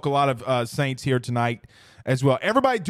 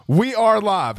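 retake opener; 4 semitones higher, 4 dB louder, slower than usual. Acted. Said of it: "How about that one?".

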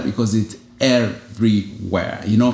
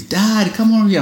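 put-on high, light child's call across the park; kids calling out; 10 semitones higher than usual. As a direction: call like a small kid wanting dad.

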